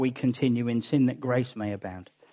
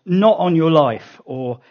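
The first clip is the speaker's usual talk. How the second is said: louder, insistent "Never, never, not ever"; emphatic refusal; 7 dB louder than usual. Shown as a demonstration. Preacher voicing Paul's refusal, loud and emphatic. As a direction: stamp down a refusal. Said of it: "the equivalent of saying".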